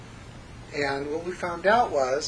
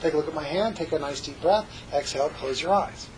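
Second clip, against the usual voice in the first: instructional voice. Shown as a demonstration. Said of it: "instructional voice".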